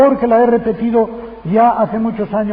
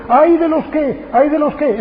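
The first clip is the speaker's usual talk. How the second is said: accusing lament; 5 semitones higher than usual. Retold or imitated. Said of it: "Seis veces dice".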